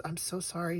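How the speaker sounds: soft, lightly acted embarrassed apology; mortified apology. Embarrassed husband apologizing to the drugstore lady, mortified. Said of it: "He's just mortified".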